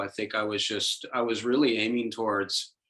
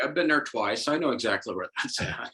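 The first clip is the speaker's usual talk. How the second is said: higher-pitched, over-keen agreement, easing down; mock eager reply; 6 semitones higher than usual. Guest replaying his reply to Ralphie Glick, mock eager. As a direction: jump back in a bit too eagerly. Acts out snapping back into conversation.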